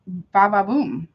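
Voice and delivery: slow drumroll-style ba ba boom; dramatic ba ba boom. Pretend. Reader teasing a shakeup to viewers, slow dramatic drumroll. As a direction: stretch it out like a reveal. Dramatic reveal while reading cards.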